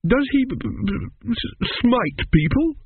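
high stammer, catching on the word; fearful small boy. Acted. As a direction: stutter it out like a scared child. Awed Arthur stammers.

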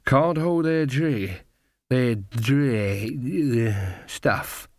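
put-on slow drunk, stumbling on the word; drunken coachman. Coachman mocking young drinkers, drunkenly halting. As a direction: lose the word halfway, like a tipsy coachman.

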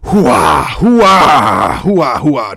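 loud gung-ho hoo-ah bark; Al Pacino impression. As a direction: bellow hoo-ah like an old colonel. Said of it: "worst Al Pacino impression".

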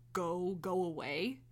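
slow, growly but buzzy hiss; dragonfly voice. Retold or imitated. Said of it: "in, like, a little dragonfly voice".

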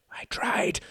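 unvoiced, intense whisper; fierce whisper. A narrator's reading. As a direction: hiss it with force. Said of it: "whispered Reginald fiercely".

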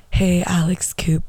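mock breathy podcast hello, whispered; whispered podcast greeting. Mocking a podcaster greeting her guest, whispered. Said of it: "this is her".

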